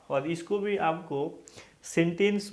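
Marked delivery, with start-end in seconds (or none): 1.8-2.5 सेंटेंस with a clear E first, "sen-tens"; model pronunciation. Shown as a demonstration. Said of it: "सेंटेंस नहीं बोलना है". (सेंटेंस की शुरुआत साफ़ "सें" से)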